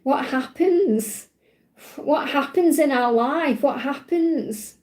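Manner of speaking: slow, wondering little child's voice, lightly voiced; a small child tugging your shirt, asking slowly; inner child. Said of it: "imagine this is your inner child doing this, tugging on you right now, saying".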